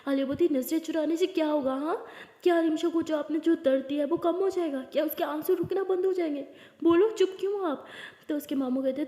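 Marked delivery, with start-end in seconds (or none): 0.5-7.8 angry confrontation. Acted. Aliya confronting her uncle.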